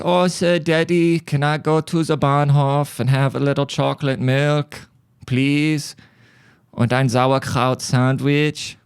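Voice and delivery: a high, put-on German accent, begging dad sweetly; pleading German kid. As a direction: beg dad for chocolate milk in a mock German kid voice. The son pleading with his dad.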